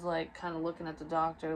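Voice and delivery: usual speaking voice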